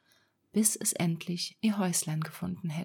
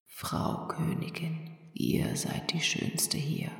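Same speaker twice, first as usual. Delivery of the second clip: magic mirror; 2 semitones lower than usual. Acted. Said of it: "Da antwortete der Spiegel".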